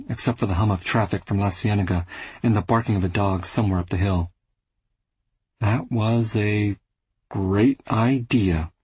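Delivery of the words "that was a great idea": sarcastic. Acted. Bitter remark after failed visit.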